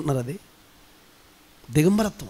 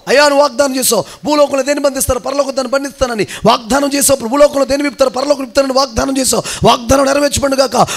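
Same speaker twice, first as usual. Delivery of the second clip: insistent prayer; 5 semitones higher than usual. Shown as a demonstration. Demonstrates a prayer claiming promises.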